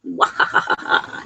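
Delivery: mock villain cackle, low and voiceless; hammed-up villain laugh; evil laugh. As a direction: give a playful "mwahaha" evil laugh. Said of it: "That's an evil laugh".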